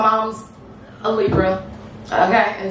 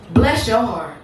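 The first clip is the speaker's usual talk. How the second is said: Midwest mama; 3 semitones higher than usual. Acted. Midwest mama politely cursing someone, restrained Midwest delivery. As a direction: say it evenly, like a Midwest mother. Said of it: "So Midwest, she said".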